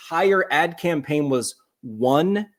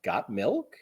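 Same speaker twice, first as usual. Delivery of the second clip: softer implied question; 4 semitones lower, 7 dB quieter than usual. Shown as a demonstration. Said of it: "without saying this, they're saying".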